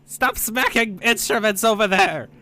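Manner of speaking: loud, high scolding yell; high shout. Acted. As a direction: yell across the room at them. NPC yelling at players.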